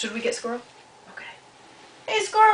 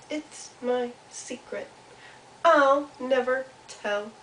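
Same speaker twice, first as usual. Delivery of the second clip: secretive little Mouse; 4 semitones higher, slower than usual. Acted. Mouse answers Turtle, slow and secretive. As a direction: space the words out, then insist.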